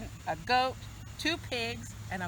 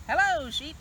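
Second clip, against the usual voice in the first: cheerful duck greeting; 7 semitones higher, 4 dB louder than usual. Acted. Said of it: "said Duck".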